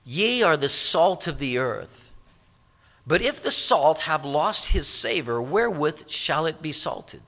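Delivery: measured, solemn King James reading; a preacher reading scripture to the congregation. Acted. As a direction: read the old verses with weight. Reads King James scripture aloud.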